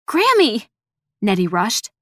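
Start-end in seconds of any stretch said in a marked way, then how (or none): 0.1-0.7 high loud panicked cry. Acted. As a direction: cry out in alarm.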